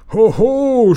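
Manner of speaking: high, loud, laughing "Hoho"; laughing shout. Acted. Pirates cheer the boy's idea with a laughing shout. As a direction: burst out in a hearty pirate whoop. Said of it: "schrien sie lachend".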